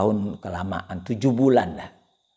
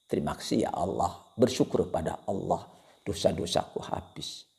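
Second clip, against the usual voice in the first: grateful prayer; 3 semitones lower, 4 dB quieter than usual. Acted. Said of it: "dia akan mengatakan".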